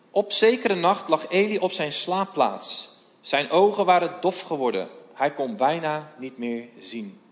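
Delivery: measured storytelling read of the Bible passage, voices lightly acted; scripture reading. Voorlezen van het bijbelverhaal. (bijbelverhaal voorlezen met lichte stemmetjes)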